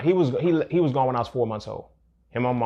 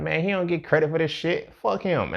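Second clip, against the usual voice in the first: retold anger; 6 semitones higher than usual. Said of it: "And I'm mad and shit".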